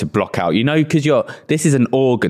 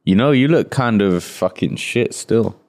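put-on East End accent. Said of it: "What's that accent you put on".

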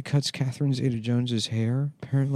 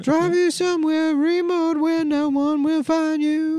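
high mock voice; 3 dB louder than usual.

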